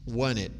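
"Want it" blended into "wanit"; Americanized pronunciation. Shown as a demonstration. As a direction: say "Want it" as one linked word, no T after N. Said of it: "Vai ficar alguma coisa assim". ("Want it" junto, como "wanit")

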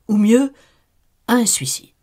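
suggestion sournoise chuchotée; insinuant. Acted. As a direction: glisse l'idée perfidement. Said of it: "il susurrait ses conseils". (murmure perfide)

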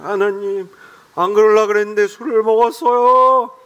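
slow, slurred mock drunk prayer; drunk man praying. Drunk young man confessing to God, slow and slurred. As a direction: ham up a tipsy confession.

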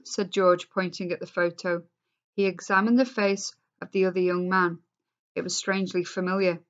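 expressive read-aloud to a class; story reading. A narrator's reading. Teacher reading the class novel aloud, expressive.

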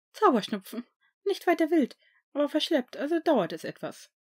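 a nurse brushing it off; school nurse. A narrator's reading. Nurse reassuring Snape. (Krankenschwester, höher und lauter)

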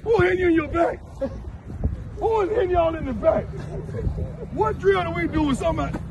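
high-pitched disbelieving questions; mock the idea in disbelief; incredulous. Real, not acted. Coach mocking kicker pads.

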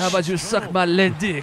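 mock silly voice. Mock voice in joke.

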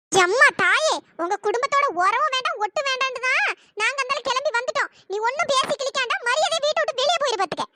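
scolding with an emphatic first burst; angry scolding. Acted. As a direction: order the visitor out. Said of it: "ஏம்மா இப்படி கத்திட்டு இருக்கா".

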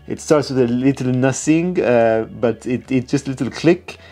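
lightly put-on French accent, mostly his own voice; a half-hearted mock French accent echoing the perfumer; playful, barely-there imitation of a French perfumer's accent; terrible French accent. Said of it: "that's a terrible French accent".

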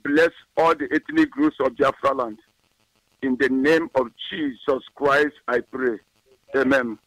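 steady, solemn prayer read. Acted. Pastor praying for IPOB leadership, solemn prayer. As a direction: intone a blessing over the faithful.

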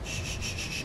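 whispered shh to stay hidden; quick unvoiced shushing. Real, not acted. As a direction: hiss a string of shh. Hushing while sneaking in game.

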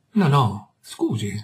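smooth it over with fake politeness; a touch of mock courtesy; mannered politeness. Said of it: "facendomi manieroso".

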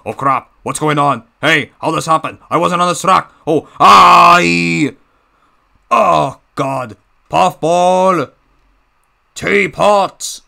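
high, loud panicked yelling; a villain losing control, shouting. Acted. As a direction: Die yelled as a furious shout.

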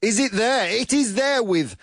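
high, slow game-show announcement; excited reveal. Real, not acted. Host reveals Min's top answer, excited reveal. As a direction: build the big reveal, pitched high.

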